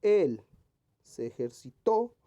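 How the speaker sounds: Él punched loud, ejercitó with stressed final TÓ; slow reading, hit Él and the end of ejercitó; ejercitó stressed on TÓ after a loud Él; stress on key syllables. Shown as a demonstration. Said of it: "vamos a ver qué dice".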